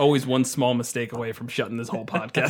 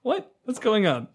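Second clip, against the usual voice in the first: much higher, startled cry; startled goblin; 9 semitones higher than usual. Retold or imitated. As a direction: panic at floating away. Goblin leader suddenly levitated.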